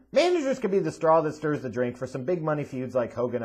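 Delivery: ordinary talk, nothing marked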